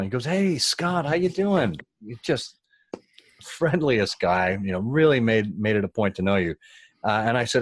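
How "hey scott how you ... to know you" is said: beam at him like the friendliest guy; lightly voiced upbeat executive; friendly Alan greeting.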